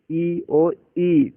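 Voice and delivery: "ई और ई" said slowly, the second ई drawn out longer; short then long vowel. Shown as a demonstration. Teacher showing students short and long ई. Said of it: "तो थोड़ा लंबा उच्चारण जाएगा".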